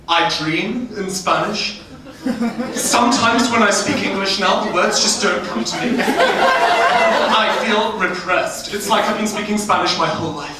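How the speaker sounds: swooning over how cultured they are; pretentious student voice. Retold or imitated. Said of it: "some students were saying".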